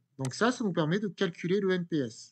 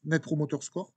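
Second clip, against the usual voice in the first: English words said with a heavy French accent. Real, not acted. Teacher reading English terms to students, French-accented English. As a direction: read the English term the French way. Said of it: "Excusez-moi pour mon accent, anglais qui n'est pas bon".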